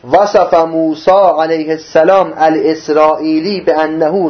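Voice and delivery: measured Arabic text reading; reading aloud. Acted. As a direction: read the quoted passage out formally. Reads Arabic source text aloud.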